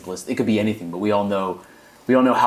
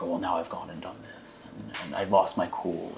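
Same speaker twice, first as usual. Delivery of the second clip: apologetic; 6 dB quieter than usual. Retold or imitated. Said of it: "it seems almost apologetic there".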